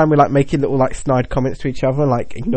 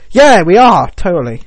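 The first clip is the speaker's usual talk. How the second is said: overly insistent; 3 semitones higher, 6 dB louder, slower than usual. Pretend. Mock denial, loud.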